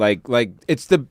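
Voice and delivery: ordinary talk, nothing marked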